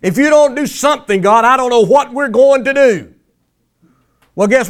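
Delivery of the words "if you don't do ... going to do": higher-pitched mock desperate prayer; hammed-up begging without real tears; mock bawling. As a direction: imitate a pleading cry to God. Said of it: "they just squalling and bawling".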